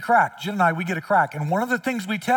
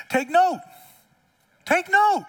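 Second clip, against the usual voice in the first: emphatic warning; 12 semitones higher, slower than usual. Real, not acted. Repeated warning, rising.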